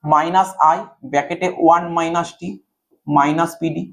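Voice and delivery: formula in separate chunks with pauses; step-by-step dictation. Real, not acted. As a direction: dictate term by term so students can follow. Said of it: "ধরে ধরে বলছি". (ধরে ধরে, থেমে থেমে বলা)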